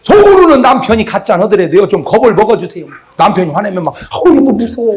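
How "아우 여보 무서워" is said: mock frightened wife. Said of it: "막 이렇게 좀 해줘".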